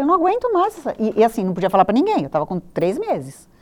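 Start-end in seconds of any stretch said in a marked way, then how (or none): 0.0-1.0 retold despair. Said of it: "Eu falei".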